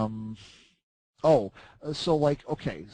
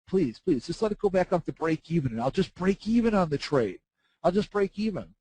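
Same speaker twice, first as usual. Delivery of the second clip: mock begging; 5 semitones higher than usual. Begging to break even.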